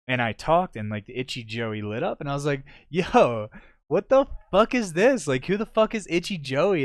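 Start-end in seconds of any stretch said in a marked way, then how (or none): 2.9-6.8 high, loud mock disbelief; pitched-up retold confusion; baffled outburst. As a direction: replay the shock of seeing a strange name.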